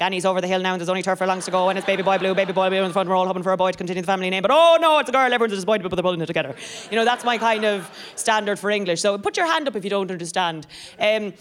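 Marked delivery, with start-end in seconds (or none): 0.0-6.5 lightly voiced horse racing commentary; racing commentator. Comedian imitating a Cheltenham race caller, light commentary. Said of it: "some of the first English I heard was like".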